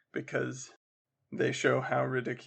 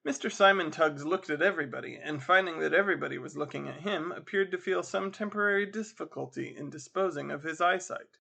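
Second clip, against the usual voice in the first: measured audiobook reading; story narration; 2 semitones higher than usual. A narrator's reading. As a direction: read the tale aloud with polish. Reads story aloud.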